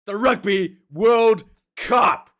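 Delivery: big rising build to a slow, punched the Rugby World Cup; hyped-up announcement. Real, not acted. Vlogger hyping his viewers for the Cup, announcer style. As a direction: sell it like a stadium announcer.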